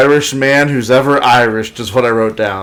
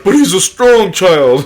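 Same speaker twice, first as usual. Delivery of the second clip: higher, slow, pleading Silver; imitating Silver; 7 semitones higher, 5 dB louder than usual. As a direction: defend himself slowly, higher. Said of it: "And Silver's like".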